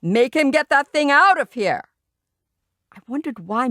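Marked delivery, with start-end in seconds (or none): 0.0-1.8 loud, high angry demand. A narrator's reading. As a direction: order it like an outraged guest. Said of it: "Mister Yarby boomed".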